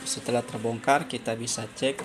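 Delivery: normal talking voice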